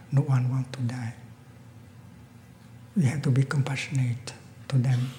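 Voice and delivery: calm monk gently addressing the killer; gentle voice. Acted. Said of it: "with a very, uh, gentle voice".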